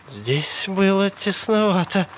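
high-pitched, offhand observation; unruffled remark. A narrator's reading. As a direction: drawl it as a mild complaint. Sally remarks coolly after struggle.

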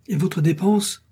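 high, loud indignant yell; innkeeper bellows. A narrator's reading. Innkeeper yelling at departing guest over the bill, loud indignant yell. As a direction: shout after the guest who won't pay. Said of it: "vociféra l'hôte".

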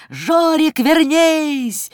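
высокий протяжный крик бабушки, без большой громкости; зазывать высоко, как сирена. A narrator's reading. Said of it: "кричала, как пожарная сирена". (высоко кричит, изображая бабушку)

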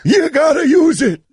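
Kevin Harlan impression. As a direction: call it like a broadcaster. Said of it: "Dance fake Kevin Harlan".

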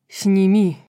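loud, forceful command; barked order. A narrator's reading. Azriel demands Nesta remove the mask, barking loudly. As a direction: bark it as an urgent demand. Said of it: "рявкнул Азриэль".

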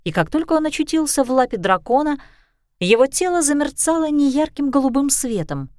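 usual speaking voice

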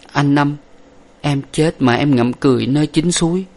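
high, faint farewell of a dying woman; fading breath, parting tenderly; dying wife. Acted.

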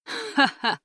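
high acted "ha-ha"; a short, high mock laugh. A narrator's reading. Captain amused at the enemy's fury, high short laugh.

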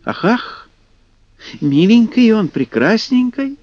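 high, sing-song teasing; mock-sweet swamp sprite voice; a little creature cooing in mockery; mocking kikimora. A narrator's reading. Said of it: "рядом с ним послышалось".

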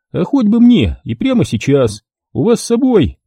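a lightly voiced shady photographer. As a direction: play the dealer selling his offer. Photographer takes money.

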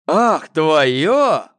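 almost yell it in his face; nearly shouting. A narrator's reading. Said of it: "почти закричал на него младший Ефимыч". (младший брат почти кричит на Гошу)

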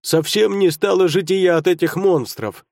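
loud, high, aggrieved complaint; grumbling dwarf. A narrator's reading. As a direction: gripe like an indignant gnome. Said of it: "недовольные голоса".

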